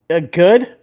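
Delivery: mock unsure driver. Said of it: "he's like".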